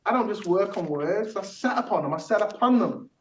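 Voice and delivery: rhythmic spoken-word recital; poem performance. Acted. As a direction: perform it like a rap verse, on the beat. Performs own technique poem.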